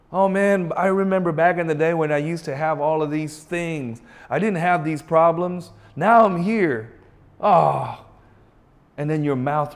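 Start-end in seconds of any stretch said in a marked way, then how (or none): 0.1-8.0 a hammed-up whiny complainer, louder; mock the one who moans about the past. Voicing a complaining believer.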